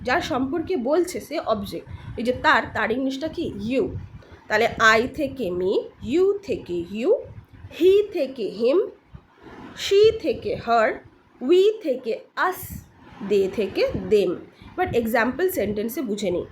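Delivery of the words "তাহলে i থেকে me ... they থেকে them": slow, spaced-out pronoun drill. Shown as a demonstration. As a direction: lay out each pair deliberately. Teacher drilling pronoun forms slowly.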